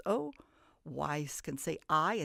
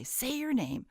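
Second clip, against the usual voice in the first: magic E's command; 8 semitones higher than usual. Pretend. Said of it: "bop that A right on his head and say".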